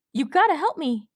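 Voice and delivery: high, breathless frightened colt voice; panicked young colt. A narrator's reading. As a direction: blurt it out like a terrified little colt. Colt Swab begging.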